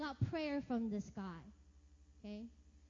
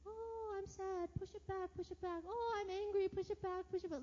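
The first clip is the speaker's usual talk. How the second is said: mock cultural voice; 6 semitones higher than usual. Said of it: "they really teach you to just".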